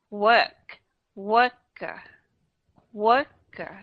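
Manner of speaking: Work, worker, light second syllable. Shown as a demonstration. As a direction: drop the -er of worker to a whisper of uh. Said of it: "mình đọc nhẹ đi một chút".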